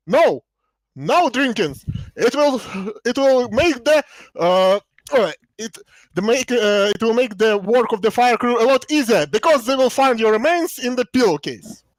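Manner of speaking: hammed-up stern captain; dry captain. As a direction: answer with dry captain's gravity. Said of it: "the captain".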